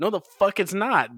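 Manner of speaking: high and loud, indignant; shouted denial from a pedantic kid; heated retort. Retold or imitated. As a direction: snap back, outraged. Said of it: "It's like".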